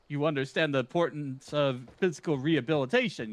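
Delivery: pompous gentleman hero, brisk and theatrical; Hildebrand. Acted. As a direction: read it like a vain, grandiose gentleman. Voicing Hildebrand's quest lines.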